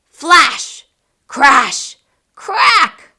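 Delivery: punchy, building to a high crack; booming storm effects; loud sound words. A narrator's reading. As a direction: hit each word like thunder. Lightning strikes.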